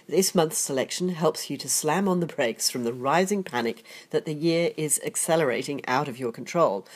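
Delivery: ordinary delivery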